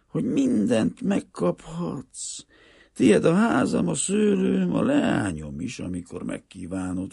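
high, impassioned offer, loud at first; earnest peasant father. A narrator's reading. Greek father offering everything but marriage to his daughter, earnest. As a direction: offer freely, then slow into a hushed refusal.

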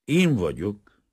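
mildly surprised professor; surprised answer. A narrator's reading. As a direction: answer with a touch of wonder. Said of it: "felelte a professzor csodálkozva".

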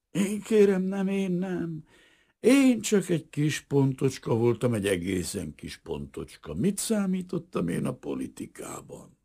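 high, pleading self-defence; anxious protest. A narrator's reading. Little man protests his innocence. (riadtan mentegetőzve)

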